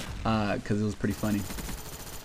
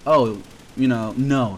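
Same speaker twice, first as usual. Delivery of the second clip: slow, louder playful no; teasing refusal; 2 semitones higher, 5 dB louder, slower than usual. Retold or imitated. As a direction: tease him as you refuse. Girl teasingly refusing phone.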